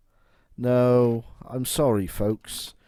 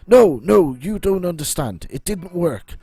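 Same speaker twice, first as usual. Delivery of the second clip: panicky guard; 3 semitones higher, 4 dB louder than usual. Acted. Frightened guard pleads with hunter.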